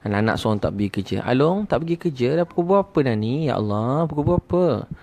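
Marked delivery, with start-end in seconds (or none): 1.2-4.9 higher-pitched, mildly flustered nagging; mock panicked parent waking a late sleeper; acted panic. Parent rousing the eldest child for work, mildly panicked. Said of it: "Satu keluarga panik".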